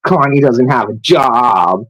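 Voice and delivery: mimicking critics with a scornful sneer; mocking sneer. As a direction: sneer it like the people judging him. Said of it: "Sat there pointing your finger".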